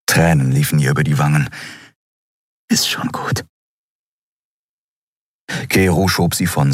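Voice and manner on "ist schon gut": "Ist schon gut" barely whispered, stress on "Ist"; softer whisper. A narrator's reading. Endriel holding Keru, fainter whisper. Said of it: "flüsterte sie".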